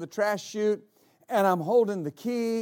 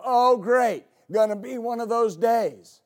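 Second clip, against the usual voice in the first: mock-exasperated complaint, loud at the start; sarcastic grumble; 4 dB louder than usual. Preacher imitating people when mornings go wrong, sarcastic grumble. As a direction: imitate a grumbler, leaning hard on the opening.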